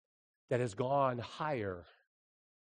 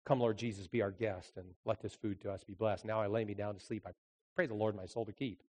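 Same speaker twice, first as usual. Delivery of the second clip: rote prayer; 3 semitones lower, 6 dB quieter than usual. Retold or imitated. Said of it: "your prayers are".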